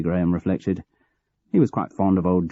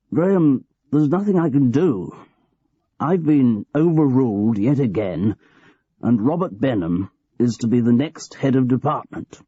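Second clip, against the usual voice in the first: lightly voiced old boss, a little higher; a hint of a cosy old manager confiding; aging boss George; 5 semitones higher than usual. George breaks bad news.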